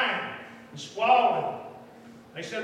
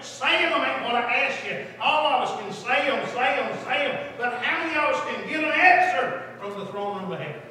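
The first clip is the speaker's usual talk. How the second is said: fervent preaching; 6 semitones higher, 8 dB louder than usual. Acted. Preaches to the congregation.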